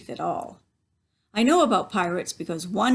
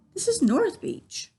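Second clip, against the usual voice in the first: put-on little boy; 11 semitones higher than usual. A narrator's reading. Boy answers pirate.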